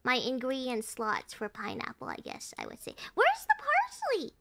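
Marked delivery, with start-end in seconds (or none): 3.1-4.3 exasperated searching. Real, not acted. Player hunting the kitchen for parsley, exasperated. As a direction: whine it high while hunting around. Frantic hunt for an ingredient.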